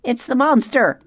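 high, loud owl screech. A narrator's reading. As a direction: screech the alarm to the crowd.

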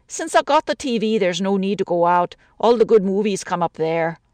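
lightly voiced Irish widow, chatty grumble; a lonely woman complaining about the city; a hint of an older woman's voice, gently aggrieved.

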